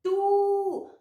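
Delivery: Tatu split into two long, separate syllables. Shown as a demonstration. Teacher showing how tatu is written, syllable by syllable. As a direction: sound out Tatu slowly, ta, then tu. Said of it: "Vamos ver, ó".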